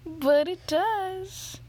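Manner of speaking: lightly creepy, dragging the words; creeper voice. Real, not acted. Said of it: "It's my creeper voice".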